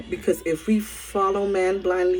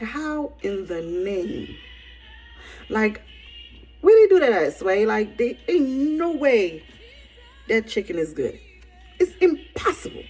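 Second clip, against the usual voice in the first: stunned disbelief; 3 semitones higher than usual. Retold or imitated. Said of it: "And you like".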